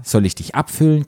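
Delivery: high-pitched, lightly acted panting; mild narrated panting. A narrator's reading. Lukas to patient in the story, mildly panting. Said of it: "keuchte er".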